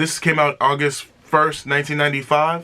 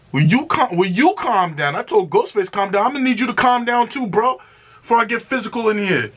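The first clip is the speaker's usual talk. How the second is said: high, fast playful warning; mock scolding; 8 semitones higher than usual. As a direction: tell a fellow rapper to calm down, laughing at him. Jokingly scolding a rapper for verse.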